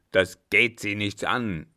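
loud, indignant rebuff; calling out angrily. A narrator's reading. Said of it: "rief da der Alte". (laut und empört gerufen)

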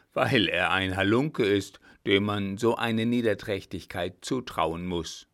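lightly voiced marshal, loud and indignant; a hint of an angry commander; gruff-tempered old marshal. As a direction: accuse him forcefully as the marshal. Voices blunt marshal Blücher in story.

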